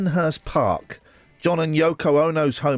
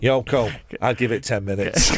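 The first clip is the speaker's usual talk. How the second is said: put-on a lightly done Manchester accent, deadpan; mock line from a singer in a mild Manchester accent; 6 semitones lower than usual. Host slags off an artist on air in a light Manchester accent. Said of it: "in that accent".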